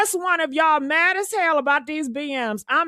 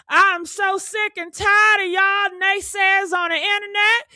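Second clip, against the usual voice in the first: angry rant; 5 semitones higher than usual. Real, not acted. Host ranting at internet naysayers, fed-up shout. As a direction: let the anger out at them.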